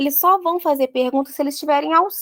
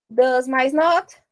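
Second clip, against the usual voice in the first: "Does mais not" said slowly; slow spelling out; much slower than usual. Shown as a demonstration. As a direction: build it part by part. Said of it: "fica como". (montando devagar)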